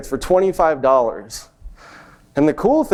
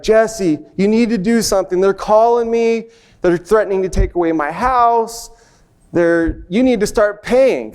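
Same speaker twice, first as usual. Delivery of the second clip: upset crying mom; 4 semitones higher than usual. Retold or imitated. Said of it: "she's crying".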